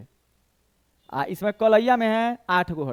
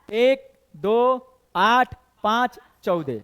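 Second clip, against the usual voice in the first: slow counting; much slower than usual. Shown as a demonstration. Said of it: "देखो".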